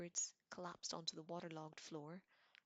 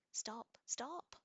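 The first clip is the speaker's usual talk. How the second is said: high loud squeal; 7 semitones higher, 4 dB louder than usual. Acted. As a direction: shriek it in a panic. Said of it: "Her voice echoed as loud".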